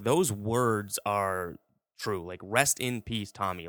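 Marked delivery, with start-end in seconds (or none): 2.4-3.7 sincere. Shown as a demonstration. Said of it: "Like, I mean that".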